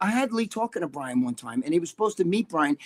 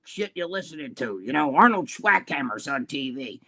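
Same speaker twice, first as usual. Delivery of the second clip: put-on grumpy old man. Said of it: "sound like an old man".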